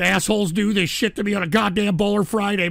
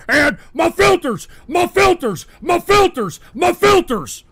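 Alex Jones impression. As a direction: bellow it like a frantic talk-show pitchman. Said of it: "You wanna listen to some guy going".

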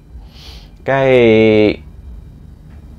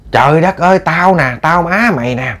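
higher-pitched acted exasperation; exasperated mother; 5 semitones higher than usual. Mother reminding daughter who she is, exasperated.

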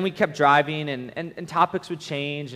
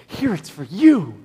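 put-on a louder, slow, proud child offering a gift; proud little child; 6 semitones higher, 9 dB louder, slower than usual. Little child gives the picture proudly, hammed-up child. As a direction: hand it over beaming like a kid.

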